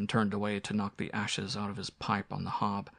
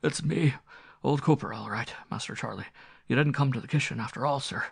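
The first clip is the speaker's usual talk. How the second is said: lightly voiced rustic old servant, a little higher; old butler; 4 semitones higher than usual. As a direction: reassure your master as an old retainer.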